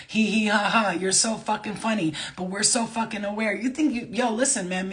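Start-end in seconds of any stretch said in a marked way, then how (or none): 0.1-0.9 a spoken, mocking hee hee ha ha; mock spirit laughter. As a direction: parody their snickering without really laughing. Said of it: "laughing at people".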